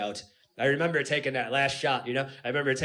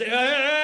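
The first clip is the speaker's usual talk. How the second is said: helpless groan; 8 semitones higher, 4 dB louder than usual. Retold or imitated. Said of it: "all I was saying was".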